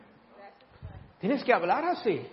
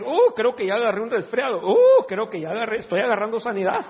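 louder, groaning uh as if catching cold; mock sniffly complaint; 5 dB louder than usual. Preacher mocking a believer catching a cold, mock groan. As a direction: groan like you're getting sick. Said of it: "en lugar de decir".

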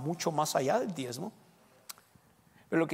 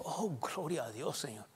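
humble worshipper; 5 dB quieter than usual. Retold or imitated.

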